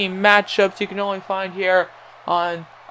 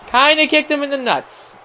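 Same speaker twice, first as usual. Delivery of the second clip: higher, incredulous repeat; amused repeat; 7 semitones higher than usual. Shown as a demonstration. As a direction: say it again in disbelief, pitched higher. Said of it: "He kinda kicked him in the nuts".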